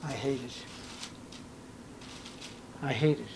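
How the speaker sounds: quiet, low, heavy words from Christ; Christ's voice. Acted. Preacher voicing Christ rejecting empty worship, quiet and low. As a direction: let each I hate it fall soft and low. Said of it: "Christ looks down and says".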